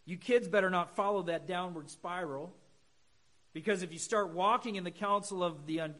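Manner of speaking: put-on loud, scolding lecture to kids; stern parent lecturing children loudly; stern moralizing parent. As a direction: wag a finger at the kids, raising the volume. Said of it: "We should not approach Psalm one and say this".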